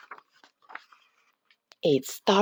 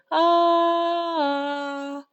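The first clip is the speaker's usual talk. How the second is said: a touch of high-pitched fright; frightened little unicorn thinking aloud; mild fright; scared thought; 10 semitones higher, slower than usual. A narrator's reading. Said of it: "he thought".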